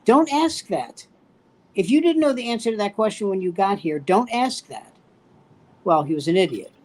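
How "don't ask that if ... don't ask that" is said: raised-pitch, incredulous scolding; exasperated telling-off. Retold or imitated. Veteran of the queue tells off a naive fellow draftee, exasperated. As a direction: scold him for a foolish question.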